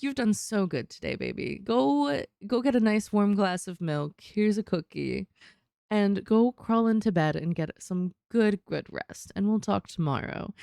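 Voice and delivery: lightly voiced mom tucking a child in; caring mom voice. Mom soothing her child to bed, lightly voiced. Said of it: "But that's mom".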